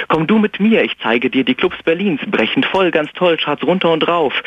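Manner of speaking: höher, angedeutete Freundin; mock friend voice. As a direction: spiel die Freundin leicht an. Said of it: "Drum sagte sie". (Freundin lockt ins Clubleben, leicht imitiert)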